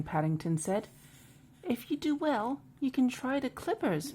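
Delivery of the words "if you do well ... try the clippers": higher-pitched storybook barber; barber's line. Acted. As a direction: pitch the barber's offer up high. Voicing the barber's reply.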